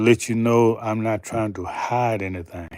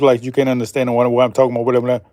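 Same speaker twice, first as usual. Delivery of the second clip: mock rapid talk; 4 dB louder, much faster than usual. Shown as a demonstration. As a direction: rattle it off fast, words running together. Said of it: "speaking like this".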